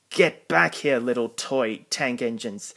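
booming villain calling out a chase. Acted. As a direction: yell after the fleeing engines. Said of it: "Diesel ten's booming voice rang out".

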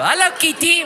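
high, cooing call to a cat; mock-innocent high greeting; naive tourist. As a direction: greet the lion like a harmless pet. Acts naive tourist greeting a lion.

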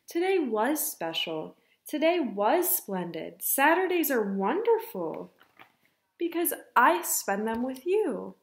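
gently emphatic storybook comfort; reassuring. Acted. Ava comforts her crumpled mother, mildly reassuring. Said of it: "Ava reassured her".

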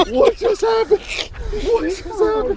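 high, loud laughing disbelief; yelling at a horse race. Real, not acted. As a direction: shriek it through laughter. Laughing disbelief after the catch.

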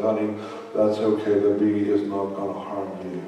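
soft, calm fatherly reassurance; a dad soothing his daughter in the car, quietly; reassuring dad. Retold or imitated. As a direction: gently settle a scared child. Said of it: "the dad ... said".

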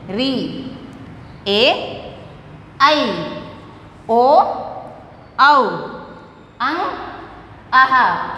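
each vowel "ए, आ, इ, ई" sounded alone, long ones held; vowel pronunciation demo. Shown as a demonstration. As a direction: sound out "उ, ऊ" as bare vowels, short then drawn out. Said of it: "उच्चारण करना है".

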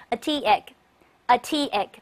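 a tea egg said slowly twice; slow model reading. Shown as a demonstration. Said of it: "来一块儿读一下". (慢速示范a tea egg)

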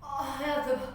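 low, soft moan; quiet moan. Real, not acted. Burning mouth, quieter.

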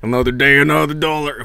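a hint of a southern twang; mild southern accent. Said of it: "I love that accent".

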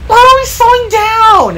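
high, quick squeaky question; puzzled freight car. A narrator's reading. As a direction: ask in a high little truck voice. Freight car asks in character.

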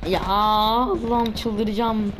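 slow, stretched groan of frustration; drawn-out despair. Real, not acted. Gamer giving up on the level, slow stretched exasperation. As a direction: drag it out, at the end of your rope.

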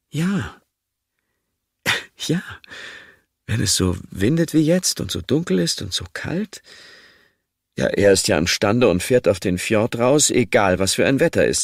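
fretting wife laughing off her fear; worried Sinje, voice rising; anxious wife. Acted. Sinje's worried speech to Asle.

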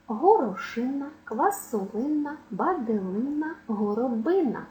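«Горошина, квасолина, баделина, горобина» stressed on -ИН-. Shown as a demonstration. Teacher drilling stress on the suffix -ин-. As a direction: lean on the -ин- in each word. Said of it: "будуть мати наголос саме на «ин»".

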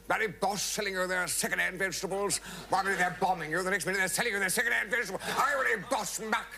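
grumbling blimp rant, rising; hammed-up outrage at foreign food; mild mock anger. Blimp scolding the waiter about foreign food, mock angry. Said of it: "he got very angry about that".

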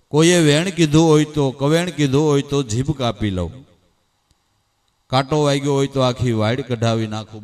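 mild loud oath; son's fervent vow. Acted. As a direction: swear it hotly to your mother. Son vows to mother.

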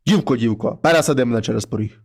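low, heavy voice of a wolf head at the door; low monster head voice. Acted. Wolf head knocks and calls the girl, low and heavy.

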